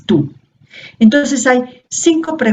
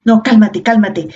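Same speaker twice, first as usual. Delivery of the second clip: hushing someone. Retold or imitated. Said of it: "Y le dices".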